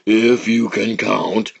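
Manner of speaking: slow sly big alligator; lightly voiced sly crocodile.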